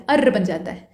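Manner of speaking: अर्र with the r pressed and drawn out, low and soft; drawn-out rolled r. Shown as a demonstration. Teacher demonstrating the अर्र sound to students, pressed and drawn out. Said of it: "दबा कर क्यों खींचा जा रहा है".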